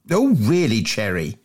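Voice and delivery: Billy Bunter voice. Acted. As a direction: whine it like a greedy schoolboy.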